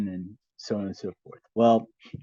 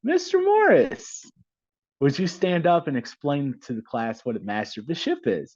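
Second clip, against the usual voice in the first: put-on old professor calling out; 4 semitones higher than usual. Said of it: "He said".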